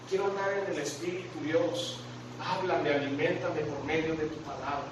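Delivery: soft, hushed prayer to God; quiet prayer. Shown as a demonstration. Preacher models a prayer for the congregation, softly. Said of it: "puedes decir esto".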